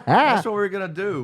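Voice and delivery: high squeaky helium voice; loud squeaky helium talk. Acted. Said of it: "Bad helium".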